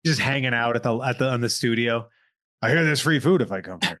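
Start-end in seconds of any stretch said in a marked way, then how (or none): 2.6-4.0 mock moocher. Mock celebrity freeloader voice.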